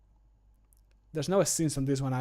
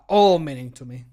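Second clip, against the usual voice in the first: a loud, emphatic "all", then easing off; stress on ALL; 9 dB louder than usual. Shown as a demonstration. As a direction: lean hard on the word "all". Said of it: "I would like more to do".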